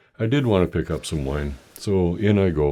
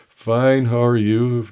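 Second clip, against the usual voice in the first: customer's reply; 6 semitones higher, 5 dB louder, slower than usual. Retold or imitated. Customer answers cashier's greeting.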